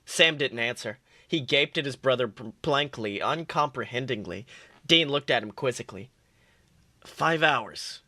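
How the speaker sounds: steady read-aloud storytelling voice; story narration. Acted. Reads fan fiction aloud.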